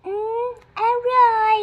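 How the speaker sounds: slow, dainty little voice tasting food; cutesy small voice. Acted. Younger sister tasting food in a slow, cutesy small voice. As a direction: put on a tiny cute voice to savour it. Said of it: "ไม่ต้องทำเสียงแบบเนี้ย".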